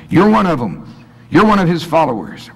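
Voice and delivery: put-on high, sharp accusing girl's voice; accusing young woman. Servant girl accusing Peter, high and pointed. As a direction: point the finger at him.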